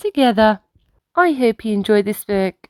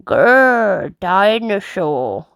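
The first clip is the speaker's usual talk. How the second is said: mock dinosaur roar; much slower than usual. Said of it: "roars George".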